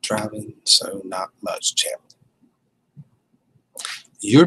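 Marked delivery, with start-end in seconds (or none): 0.0-2.0 slower and softer, spacing out the words; slow puzzled reread. Real, not acted. Streamer puzzling over a viewer's chat message, slow reread. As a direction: read it slowly, working out the sense.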